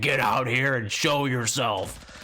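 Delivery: slow mock challenge to the ghost; drawn-out dare to show itself; taunting. Grandpa daring the ghost to show itself, slow mock challenge.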